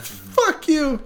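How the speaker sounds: tiny possessive gremlin shrieking, laughing at the end; shrill laughing critter rant; tree dude voice. Retold or imitated. Quoting the tree dude again.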